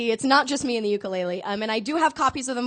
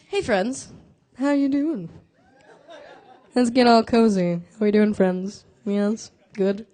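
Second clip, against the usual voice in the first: low, smooth late-night host greeting; talk show host voice; 4 semitones lower than usual. Pretend. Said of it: "late night talk show host voice".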